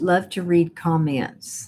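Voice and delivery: ordinary talk, nothing marked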